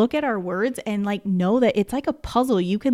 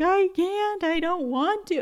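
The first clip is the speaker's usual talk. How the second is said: put-on much higher, whimpering little boy; whiny crying child; 10 semitones higher, slower than usual. Teacher mimics her tearful student refusing to read, high whine. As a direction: imitate a boy in crocodile tears refusing. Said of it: "just total crocodile tears".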